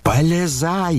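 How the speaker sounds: high, forceful bellow; roaring. A narrator's reading. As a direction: roar it at Ganya. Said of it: "заревел Фердыщенко".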